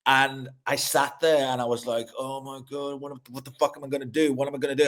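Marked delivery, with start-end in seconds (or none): 2.2-4.9 softer, hurried mock panic, higher; retold panic. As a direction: mutter it fast like you're cornered, softer. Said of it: "And I stressed so much".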